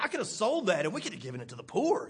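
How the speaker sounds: fast, put-out grumble; a hint of a greedy Judas; Judas complaining. Judas grumbling to a disciple, fast and put out. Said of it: "he said".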